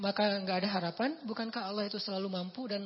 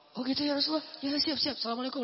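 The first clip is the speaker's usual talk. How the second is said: higher and brighter, quick yes; the poor companion eagerly accepting the Prophet's advice, higher pitched; eager agreement; 5 semitones higher, faster than usual. Retold or imitated. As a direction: jump at the advice and rush off.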